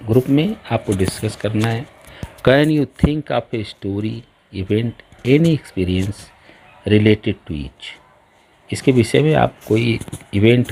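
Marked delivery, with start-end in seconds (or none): 2.5-7.9 very slow, deliberate dictation pace for the class; slow textbook reading. Shown as a demonstration. Teacher reading the exercise to her class, slow and deliberate. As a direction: spell out each word so pupils can follow.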